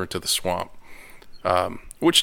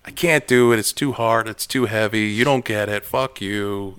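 whiny Luke. Retold or imitated. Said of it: "still whining".

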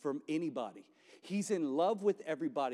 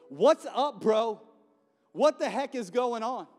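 much higher, louder cartoon donkey voice; talking donkey; 8 semitones higher, 9 dB louder than usual. Donkey mouthing off at Balaam, high and loud. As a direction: squeal it like a cheeky cartoon donkey. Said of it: "and the donkey goes".

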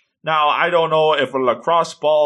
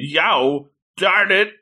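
higher-pitched retold exclamation; imitated outcry; 5 semitones higher, much slower than usual. Somebody down the hill cursing, imitated outcry. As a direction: mimic someone's frustrated cry, pitched up. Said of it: "somebody saying".

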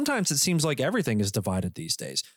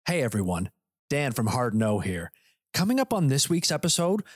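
promo voice; 3 semitones lower than usual. Acted. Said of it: "let's tell the good people on TikTok".

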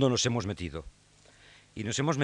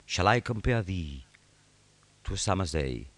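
poem recital; 4 semitones lower, 5 dB quieter than usual. Shown as a demonstration. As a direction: let the English sound ring, softer and lower. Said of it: "el ruido hermoso que esto produce".

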